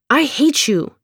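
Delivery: put-on boy's high angry shout. A narrator's reading. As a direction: yell it at her, hurt and sulking. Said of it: "he shouted".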